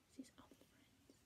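barely voiced, very soft aside; quiet aside. Real, not acted. Reader explains who the boys are, very quietly. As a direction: slip it in almost under the breath.

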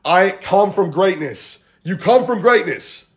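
slow call for repeating; mantra. Shown as a demonstration. Coach asking viewers to say it along, slow mantra. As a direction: lead the group line by line, slowly. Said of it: "Say it with me".

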